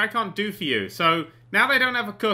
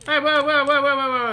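alarmed whoa; 7 semitones higher, 7 dB louder than usual. Real, not acted. Reacting to flirting.

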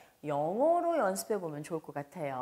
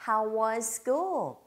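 slow model phrase; 3 semitones higher, much slower than usual. Shown as a demonstration. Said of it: "사실 이 문장은요".

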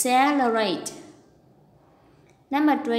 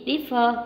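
differ with DIF- stressed; stress on first syllable. Shown as a demonstration. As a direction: lean on the opening syllable of "differ". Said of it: "đều có trọng âm hai".

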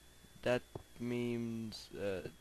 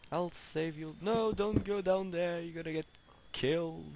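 high, louder urgent warning; urgent call; 7 semitones higher, 3 dB louder than usual. Real, not acted. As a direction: call after the pig in alarm. Pig wandering toward danger.

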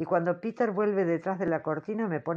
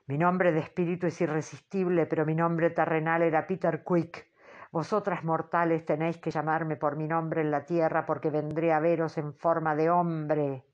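booming voice. Acted. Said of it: "responde con un vozarrón".

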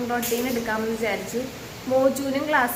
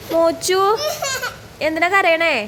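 concerned call to son, higher and louder; 6 semitones higher, 4 dB louder, slower than usual. Real, not acted. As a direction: call across the room to the little one. Calling to crying toddler.

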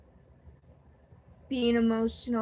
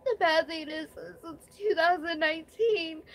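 tearful; 4 semitones higher than usual. Real, not acted. Mother in hospital, emotional vlog.

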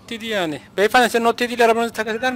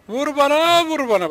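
lightly mocked catchphrase; Kerimcan Durmaz; 6 semitones higher than usual. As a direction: pitch it up, then let it drop. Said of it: "Kerimcan Durmaz'da". (hafif taklit, önce tiz sonra düşen)

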